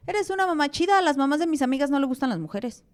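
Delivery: lightly voiced daughter, bright praise; daughter's voice.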